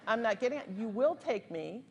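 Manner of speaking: retold insistence, slowing on "will take me"; sassy defiance. Passenger ordering the driver to take her, sassy defiance. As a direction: imitate digging in with attitude. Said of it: "like, with the head roll and everything".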